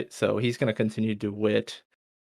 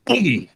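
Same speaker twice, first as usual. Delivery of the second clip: drawn-out, falling boom; a slow, swooping sound-effect boom; imitated impact boom; 4 semitones higher, 4 dB louder than usual. Coffin slams down on the officer, imitated crash.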